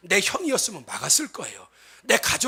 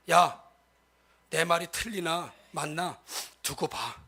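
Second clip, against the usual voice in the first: told-you-so taunt; slower than usual. Retold or imitated. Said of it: "이런 얘기".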